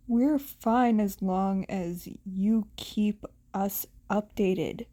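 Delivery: low, even reassurance; lightly voiced calm Shinso.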